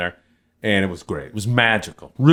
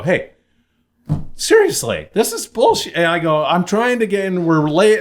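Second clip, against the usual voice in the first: retold complaint; 8 semitones higher than usual. Complaining to official by phone.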